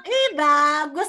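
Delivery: high-pitched, encouraging teacher praise; delighted praise. Real, not acted. Teacher praising a child's mountain drawing, delighted.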